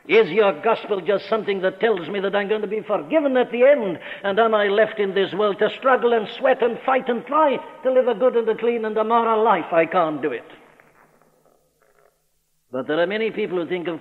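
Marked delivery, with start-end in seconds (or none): 0.1-10.4 urgent, raised-pitch plea of a struggling man; preacher acting out a desperate objection; exasperated protest. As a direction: press the complaint, piling up each effort. Preacher voices a struggling man's protest.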